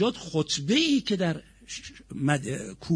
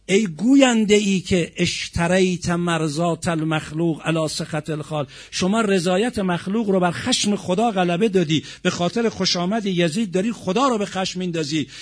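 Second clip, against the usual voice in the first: mild raised-voice rebuke, slightly louder; retold outcry; 2 semitones higher, 4 dB louder than usual. Imam rebuking the preacher who praised Yazid, mildly raised outcry. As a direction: lightly re-enact a cried-out accusation. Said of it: "فریاد زد، صیحه زد امام سجاد".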